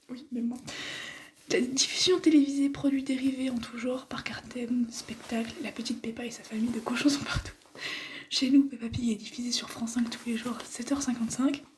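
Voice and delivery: hushed reading; whispering. Real, not acted. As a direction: whisper the article. Held whisper.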